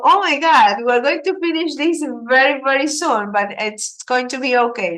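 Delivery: mock panic settling into reassurance; mock dismay. Acts out class reaction to finishing.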